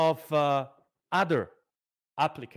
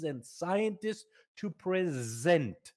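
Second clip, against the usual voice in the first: "present" drawn out and slowed for weight; slow down and land on "present"; stress on present; slower than usual. Shown as a demonstration. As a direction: lean slowly into "present". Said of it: "I wanna emphasize the verb to present".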